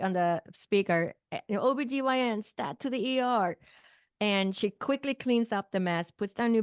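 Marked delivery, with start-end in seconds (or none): 1.5-3.6 higher-pitched imitation of a hospital call; loudspeaker page. Patient imitates the call for the doctor to the ER, loudspeaker page. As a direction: lightly mimic an urgent page over the speaker. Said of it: "I hear the call on the loudspeak".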